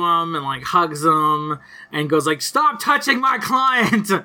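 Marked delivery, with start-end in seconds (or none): 2.4-4.1 high, shrill outburst of outrage; shrieking yell. Retold or imitated. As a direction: yell it like she's losing it. Rebecca flips out at rival.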